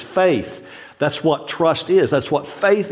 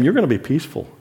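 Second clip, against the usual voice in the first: usual speaking voice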